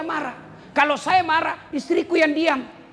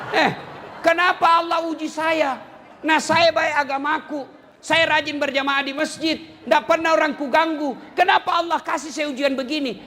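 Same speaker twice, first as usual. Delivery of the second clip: complaining believer; 3 semitones higher than usual. Acted. (jemaah yang mengeluh keras kepada Allah)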